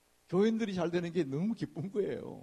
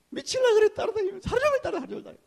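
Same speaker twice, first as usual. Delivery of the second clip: much higher, louder exclaiming; higher, louder exclamation; excited; 9 dB louder, faster than usual. Retold or imitated. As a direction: burst out in exasperated excitement. Excited description of nagging.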